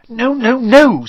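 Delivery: high, loud quick denial; panicked denial. A narrator's reading. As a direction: deny it in a panic. Hermione denying in a panic.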